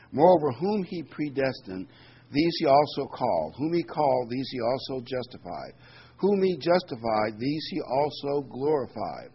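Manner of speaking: solemn scripture read. Acted. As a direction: read the verses out to the congregation with weight. Reading scripture aloud.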